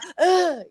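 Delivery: high mock sob; short hammed-up bawling noise; ugly cry. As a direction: fake crying, played for laughs. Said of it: "that ugly cry".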